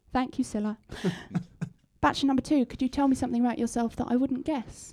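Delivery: timid quiet voice. Acted. The contestant Susan's voice.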